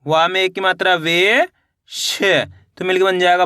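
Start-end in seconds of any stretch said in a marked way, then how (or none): 0.0-2.2 slow, spelled-out teacher reading, building up भावेश; syllable by syllable. Shown as a demonstration. Teacher showing children how to blend letters, slow and sounded out. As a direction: sound out each letter, then join them into भावेश. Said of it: "देखिए किस तरीके से है".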